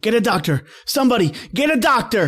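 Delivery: urgent cry for a doctor; urgent shout. Acted. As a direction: call out for help. Girl bleeding, calling help.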